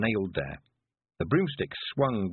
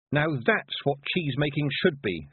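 put-on scornful young witch; 5 semitones higher, 3 dB louder than usual. Tiffany possessed, scornful.

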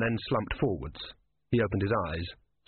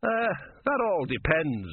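slow, higher-pitched hedging; cautious; 7 semitones higher, slower than usual. A narrator's reading. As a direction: hedge warily, drawing it out. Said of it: "said the philosopher cautiously".

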